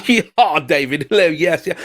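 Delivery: lightly put-on upper-class English accent; a hint of posh English, said awkwardly; mock posh English. Shown as a demonstration. Speaker imitates how upper-class Brits talk, mock posh English. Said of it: "It sounds so awkward for me to do it".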